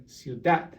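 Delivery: ciudad with the weight on "dad"; stress on last syllable. Shown as a demonstration. Teacher repeats the example, ciudad stressed on "dad". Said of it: "you stress the N".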